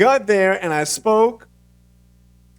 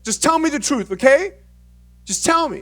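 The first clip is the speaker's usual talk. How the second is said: high, loud imitation of mom; worried mom; 11 semitones higher, 5 dB louder than usual. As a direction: play an anxious mother starting an interrogation. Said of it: "She was pretty angry".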